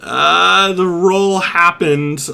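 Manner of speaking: pitch-shifted voice through changer; deep pitch shifted. Real, not acted. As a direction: voice changer effect. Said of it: "I'm in love with the voice changer".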